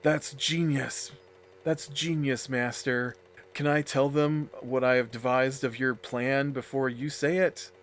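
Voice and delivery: a hint of mock reverence; fawning subordinate. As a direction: play the awed servant addressing a master. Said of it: "one of the subordinates will be like".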